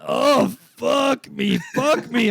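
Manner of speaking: old lady's yell, hammed-up; mock yelling. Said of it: "the old lady's yelling".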